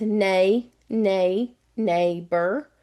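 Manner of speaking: slow, drawn-out Southern "nay, nay, neighbor"; deep Southern accent. Shown as a demonstration. Teacher sounding out neighbor for students, strong Southern accent. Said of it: "I'm gonna say it really".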